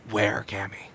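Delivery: low unvoiced whisper. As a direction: whisper the question conspiratorially. Asks in whispered aside.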